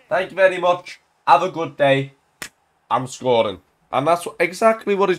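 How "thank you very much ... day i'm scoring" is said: playful Irish-tinged quote; Irish accent. Acted. Gamer voices the scorer, light Irish accent. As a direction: slip lightly into an Irish lilt. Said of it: "I don't know why I've gone Irish".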